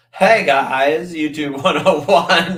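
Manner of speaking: a mocking YouTuber hello with a laugh; laughing imitation. Streamer parodies the YouTuber's intro, laughing. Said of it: "imitating YouTuber intro".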